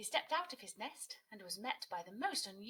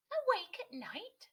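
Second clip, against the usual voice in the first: very high, loud, slow disbelief; astonished; 9 dB louder, slower than usual. A narrator's reading. Kia shocked that Otis is up at night. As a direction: stretch it out in amazement. Incredulous question.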